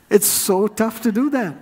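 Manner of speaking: laughing through the admission; a real laugh breaking into the words. Real, not acted. Pastor admitting his own failing, laughing.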